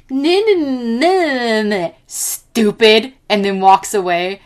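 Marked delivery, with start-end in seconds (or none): 0.1-3.1 put-on kid voice. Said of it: "And the kid goes".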